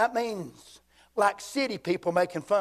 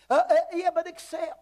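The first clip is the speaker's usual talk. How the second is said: mock objection; 10 semitones higher than usual. Voices hesitant listener's objection.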